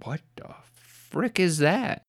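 slow, high-pitched mock alarm; stretched-out, mildly panicked retelling; mock freaked-out. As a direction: draw it out high, lightly imitating someone freaked out. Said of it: "freaked out".

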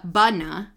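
"bana" with a heavy, loud first syllable; stress on first syllable. Shown as a demonstration. Showing what you wouldn't call it, "bana" front-stressed. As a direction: punch the opening BA of "bana", wrongly. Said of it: "You wouldn't say the first syllable".

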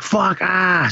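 imitated yelp of alarm; retold frightened cry. Retold fright at finding body.

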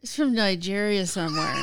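laughing reveal. Real, not acted.

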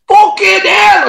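loud, high, drawn-out shriek; retold scream. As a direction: scream it out in full shock. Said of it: "I screamed at him".

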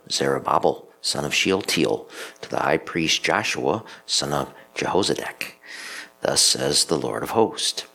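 measured liturgical reading; scripture reading. Acted. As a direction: read it like scripture at mass.

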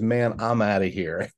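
cool dog voice. Retold or imitated. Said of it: "it comes out as".

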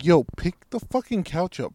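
retold impatient demand; visibly mad. Storyteller ordering his helper to lift the couch, mad. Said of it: "I'm getting visibly mad now".

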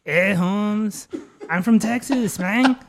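put-on asked for a Texas accent, he nails it. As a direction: lay the Texan accent on thick. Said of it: "why don't you give me a Texas accent".

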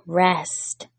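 soft, hushed, drawn-out rest; whispered word of God. Pretend. God whispering rest to his weary children. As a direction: breathe the word out softly, like a whisper. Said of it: "God is whispering to us and saying".

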